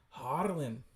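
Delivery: put-on Scottish-accented name call. Reader attempting a voice for the comic, Scottish accent. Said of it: "do a Scottish accent here".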